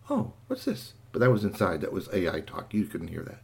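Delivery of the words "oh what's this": high, breathy cry of a startled machine; very high, faint startled cry; startled toaster voice. Acted. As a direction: squeak it out like a surprised little toaster. Toaster AI cries out inside.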